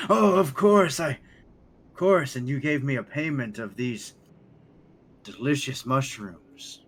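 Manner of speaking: high, loud, slow gushing voice; delighted tribal guide. Acted. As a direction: beam with delight. Moon tracker NPC voice.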